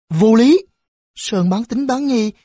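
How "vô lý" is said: indignant exclamation. A narrator's reading. Boy protests bus left early.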